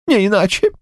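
a hint of a high old man's voice; lightly voiced old man agreeing. A narrator's reading. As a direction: agree like a resigned grandad.

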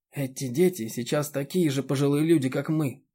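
plain reading voice

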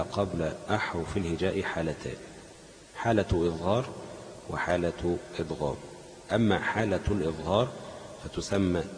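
measured classical Arabic read-aloud; deliberate, fully voweled recital of a text; formal reading aloud. Acted. Reads lesson text aloud.

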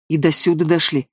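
ordinary delivery

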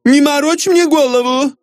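high, scolding wife's voice; woman's irritated shout. A narrator's reading. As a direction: snap back in a high female voice. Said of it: "закричал женский голос из комнаты".

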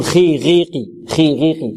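خي غيقي with only slight heaviness; lowest tafkheem. Shown as a demonstration. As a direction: keep خ، غ، ق barely thickened before the i vowel. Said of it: "ولكن في أقل مراتب". (خي غي قي بأدنى مراتب التفخيم)

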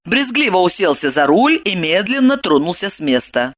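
usual speaking voice

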